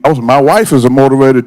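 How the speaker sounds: usual speaking voice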